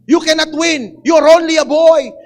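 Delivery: slow, loud dismissive royal voice; king's loud refusal. Acted. King telling David he cannot fight the giant, loud. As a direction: shout him down as a mere boy.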